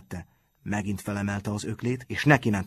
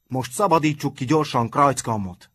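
raised, urgent call; eager call; 4 semitones higher, 4 dB louder than usual. A narrator's reading. Hordócska urging the boys to free their friend, calling out. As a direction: call the gang to action. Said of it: "kiáltott Hordócska".

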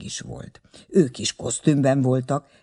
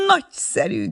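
excited cry; 8 semitones higher than usual. A narrator's reading. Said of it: "kiáltotta".

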